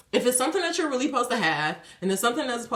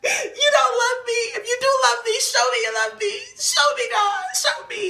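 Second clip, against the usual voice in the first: high, tearful pleading with laughter; hammed-up tearful plea; mock crying plea; 13 semitones higher than usual. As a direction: beg God to show love, half sobbing. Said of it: "And I'm crying".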